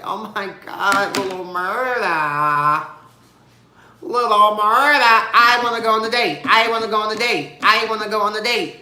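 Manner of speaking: high, loud, giddy repeating; loud, high giddy chant; gushing excitement. Retold or imitated. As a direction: squeal it over and over like a fangirl. Gushing over the date invite.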